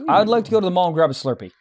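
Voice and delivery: put-on Valley Girl accent. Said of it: "a Valley Girl accent".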